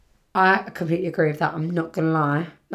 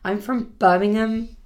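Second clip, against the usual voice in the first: put-on Brummie, less forceful; Birmingham accent; 3 semitones higher than usual. Shown as a demonstration. Podcaster retrying an unsure imitation, Birmingham accent. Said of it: "if that's the right sort of accent".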